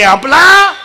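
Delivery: आपला high, loud, rising, left hanging; rising prompt. Real, not acted. Speaker cues children to name the bad one, rising prompt on आपला. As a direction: lift आपला up for the crowd to finish. Cueing crowd to supply the answer.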